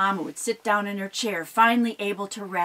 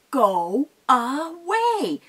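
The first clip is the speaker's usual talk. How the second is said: slow, loud, drawn-out troll command; stern troll; 5 semitones higher, 5 dB louder, much slower than usual. Acted. Mama Troll ordering the goat off the bridge. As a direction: stretch it out to scare him off. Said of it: "and she said".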